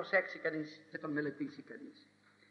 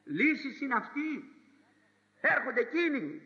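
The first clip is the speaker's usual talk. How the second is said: frightened protest; 5 semitones higher, 3 dB louder than usual. Acted. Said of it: "ο καημένος, εζάρωσε".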